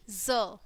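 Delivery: ज as a buzzing "zuh" with short vowel; letter sound demo. Shown as a demonstration. Teacher showing the sound in xylophone, letter sound demo. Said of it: "जेड की sound आएगी".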